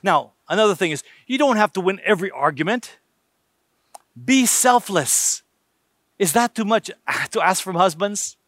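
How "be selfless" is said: slow, firm exhortation; slow emphatic. Real, not acted. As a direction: press each word slowly. Preacher drives home an exhortation.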